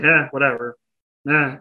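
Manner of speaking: bored, dismissive "eh"; rude dismissive grunt. Retold or imitated. Teen boy on a date, a lightly played rude shrug. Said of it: "the rudest dork I have ever been".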